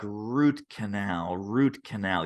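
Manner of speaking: lightly voiced dentist, low and slow; a hint of a puzzled dentist, mulling it over; slow low mock-pondering; musing dentist. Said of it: "he's a little bit of a comedian. So he's like".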